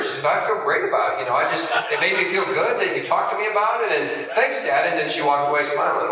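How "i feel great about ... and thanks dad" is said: lightly imitated cheerful daughter, raised pitch; a touch of a pleased kid thanking dad; happy daughter. Daughter thanking dad for the talk, mildly happy. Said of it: "just happy about it".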